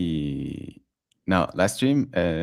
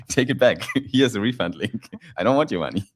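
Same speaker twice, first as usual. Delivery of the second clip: laughing mock Twitter; 4 semitones higher, 3 dB louder than usual.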